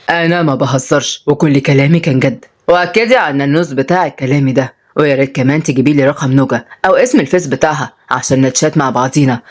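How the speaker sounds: low-voiced stubborn old man; lightly voiced old man, unabashed; lovestruck grandfather, insistent. (جدّ مصمّم ومش مكسوف)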